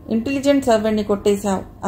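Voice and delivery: సర్వెంట్ pressed a little for emphasis; stress on servant. A narrator's reading. Woman teasing Prem about his servant, servant stressed. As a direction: lean lightly on the word servant. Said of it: "servant అన్న పదాన్ని నొక్కి పలుకుతూ".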